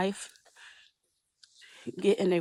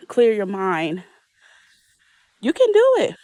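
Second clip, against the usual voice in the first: reassuring; 2 semitones higher, 4 dB louder than usual. Real, not acted. Encouraging viewers to take a break.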